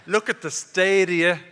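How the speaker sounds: loud mock exclamation; teasing call-out. What they'll say to people tomorrow morning, loud teasing. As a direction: call it out loudly across the room. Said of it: "we'll be saying to people".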